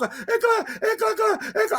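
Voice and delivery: put-on high, stammering child's voice; sobbing girl stammering her name; stuttering little girl. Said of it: "porque ela só gaguejava".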